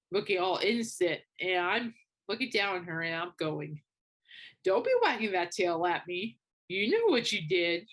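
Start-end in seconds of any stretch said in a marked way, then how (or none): 4.6-7.9 mild mock telling-off; parent-to-toddler reprimand, lightly acted; scolding like a child. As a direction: firmly chide a naughty little dog. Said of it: "It's like talking to a child".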